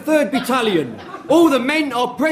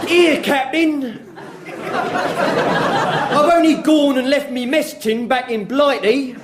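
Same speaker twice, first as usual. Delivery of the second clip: slow, mild Welsh lilt; a hint of a Welsh soldier; lightly done Welsh accent; Welsh brogue; 3 semitones higher, slower than usual. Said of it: "in his thick Welsh brogue".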